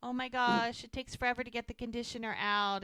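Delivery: imitating a flustered, sorry young woman; apologetic. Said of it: "And Lizzie's so apologetic".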